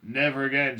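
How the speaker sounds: high, loud refusal; shouted. A narrator's reading. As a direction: shout it firmly. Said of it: "shouted Mister T V".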